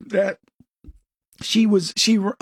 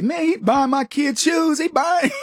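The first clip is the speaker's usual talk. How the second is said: mock indignant outburst; 8 semitones higher than usual. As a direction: act out your own petty resentment, rising. Retold own resentment about friend.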